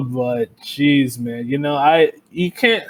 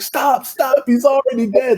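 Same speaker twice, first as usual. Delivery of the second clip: Simpsons quote; 7 semitones higher than usual. Retold or imitated. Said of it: "you see that Simpsons joke".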